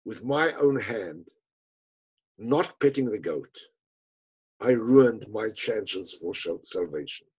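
father mourning his lost salvation, low and slow. Acted. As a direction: let it sink into hopeless regret. Father regrets killing the goat.

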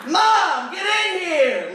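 put-on high, loud girlish call for mom; excited girl yelling. Girl calling her mom from the bathroom, high and loud. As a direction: shout up to mom like a thrilled kid. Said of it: "And she goes".

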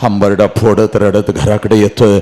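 low, grave storytelling; heavy-hearted narration; sorrowful oration. Acted. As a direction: drop the voice low for the father's weeping.

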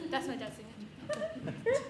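slow, laughing through the lie; laughing denial. Retold or imitated. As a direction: crack up mid-lie.

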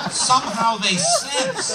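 high, loud, very drawn out; mock-mystical slow pronouncement; slow mock awe. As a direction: stretch it in hammed-up wonder.

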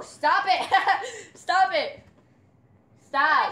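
loud laughing stop it; laughing protest. Real, not acted. Dog keeps jumping on her, laughing loud protest. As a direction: push the dog off while laughing.

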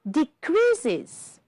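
"Decreases" in three syllables, high then falling; high, careful "Decreases" with a sounded iz ending; ending heard as iz. Shown as a demonstration. Teacher showing three syllables, "Decreases" ending clearly in iz. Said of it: "is heard is".

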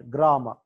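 గ్రామర్ ending in "-ma", no R; గ్రామర్ said "gra-ma"; silent final R. Shown as a demonstration. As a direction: drop the last R of గ్రామర్. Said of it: "ఆర్ silent".

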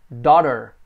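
daughter said slowly and clearly; teacher modelling daughter; model word. Shown as a demonstration. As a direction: say daughter for students to copy.

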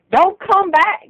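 high, loud shout. Real, not acted. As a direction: yell it after them.

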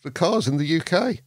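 high-pitched mock French exclamation, then settling; imitating a flustered French caller; hammed-up French hire car lady; French woman. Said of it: "she was obviously French".

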